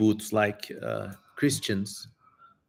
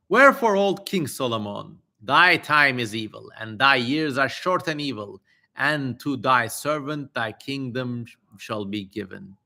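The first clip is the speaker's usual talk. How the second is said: raised, declaiming scripture voice; solemn reading. Acted. Streamer reading the demon's prophecy to chat, solemn declaiming. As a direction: read it like an old holy text. Reads ancient text aloud.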